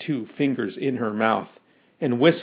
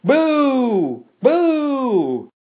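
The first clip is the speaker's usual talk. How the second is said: high, drawn-out boos; crowd booing; 9 semitones higher than usual. A narrator's reading. Mob turns on the professor, long high booing.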